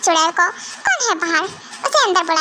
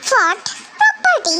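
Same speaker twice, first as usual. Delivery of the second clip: shocked; 3 semitones higher, slower than usual. Acted. Wife hearing of husband's marriage proposal, shocked. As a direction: jump up in disbelief.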